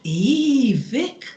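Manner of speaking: put-on Geordie accent, drawn-out opening vowel. Friend addressing the lad who hurt her, Geordie accent. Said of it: "I'm gonna use a Geordie accent".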